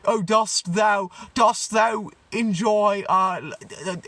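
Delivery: put-on old-timey talk. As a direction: ham up a stumbling old-timey speech. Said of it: "That's how they fucking talk".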